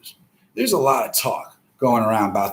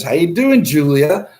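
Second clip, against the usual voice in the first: sweet greeting; 6 semitones higher, 5 dB louder than usual. Pretend.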